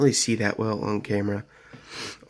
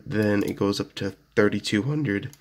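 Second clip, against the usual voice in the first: voice crack. Real, not acted. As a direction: let the voice crack mid-phrase. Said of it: "Oh, voice crack".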